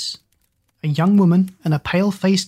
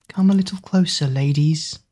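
taunting. Acted. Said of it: "The voice played with their fears".

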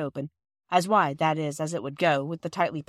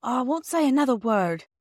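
beaming; 6 semitones higher, 3 dB louder than usual. A narrator's reading. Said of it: "with a beaming face".

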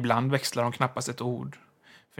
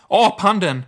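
excited shriek; 8 semitones higher, 10 dB louder than usual. A narrator's reading. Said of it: "skrek hon upphetsat".

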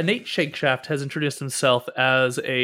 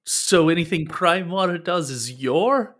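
rising to a shocked high squeak; stunned bard, pitch shooting up; aghast disbelief; 4 semitones higher, slower than usual. Acted. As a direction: voice climbs in horror. Nate aghast at party.

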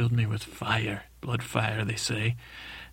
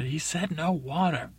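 stern mother's command; 5 semitones higher than usual. Acted. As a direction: lay down the law as mother. Mother intervenes, overruling the king.

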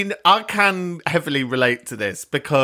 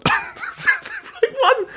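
much higher, giggling question; laughing doubt; slower than usual. Real, not acted. Host unsure of charity name, laughing question. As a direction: laugh at own uncertainty, a bit slower.

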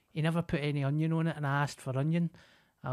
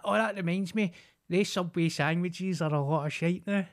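put-on higher, breezy old woman voice; lightly voiced neighbour changing subject; mock neighbour chatter; 4 semitones higher than usual. Imitating the neighbour jumping to Subway, a touch higher. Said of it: "she done that".

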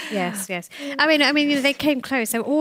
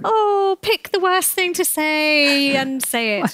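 much higher and louder, then slow and mocking; exasperated sarcasm; 7 semitones higher, 4 dB louder, slower than usual. Guest retelling his reaction to the minister, mock exasperated. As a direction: hurl it back in disbelief, drawing the words out. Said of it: "I was just sitting there going".

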